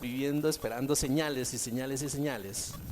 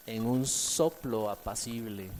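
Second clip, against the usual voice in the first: soft, slow whisper-like; 6 semitones lower, 6 dB quieter than usual. Acted. Preacher softly naming the still small voice. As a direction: lower and softer, slowed down.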